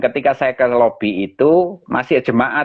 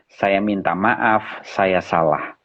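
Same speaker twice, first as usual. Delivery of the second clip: slow, low, subdued apology; quiet retold admission of fault; 3 semitones lower, 4 dB quieter, slower than usual. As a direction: apologise humbly and unhurriedly, sinking at the end.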